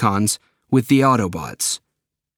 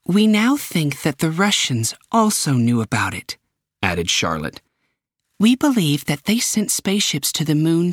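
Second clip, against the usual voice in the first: higher official voice; briefing, voiced higher; official explaining; 6 semitones higher than usual. Director briefing Optimus about Chernobyl, higher.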